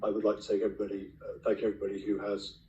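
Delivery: losing voice. Real, not acted. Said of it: "I'm sorry I'm losing my voice".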